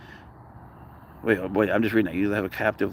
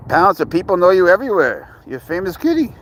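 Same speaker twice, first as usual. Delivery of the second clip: pet talk; 8 semitones higher, 6 dB louder than usual. Real, not acted. Praising the cat.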